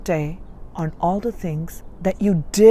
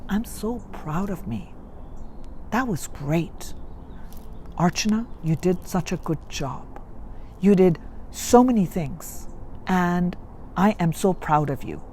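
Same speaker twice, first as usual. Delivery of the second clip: gentle self-affirmation; 5 dB quieter than usual. Shown as a demonstration. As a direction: say it kindly, like praising a child. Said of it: "It's for you to repeat to yourself".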